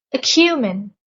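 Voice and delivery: "Acumen" with the middle syllable stressed; stress on second syllable. Shown as a demonstration. Teacher presenting a word to learners, second syllable of "Acumen" stressed. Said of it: "The stress is on the second syllable".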